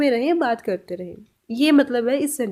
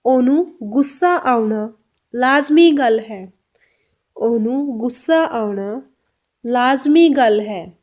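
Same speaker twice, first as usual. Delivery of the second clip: very slow, each word apart; very slow Punjabi model; 4 dB louder, much slower than usual. Shown as a demonstration. Teacher to learners, a very slow Punjabi model. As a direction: draw out ओनू गुस्सा आउणा. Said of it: "इसको पंजाबी में कैसे बोलेंगे?".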